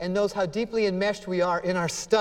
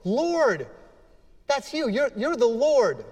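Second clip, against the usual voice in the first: exasperated plea; 4 semitones higher than usual. Acted. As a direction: pour it out, exasperated and spent. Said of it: "I can feel this with Peter, exasperated".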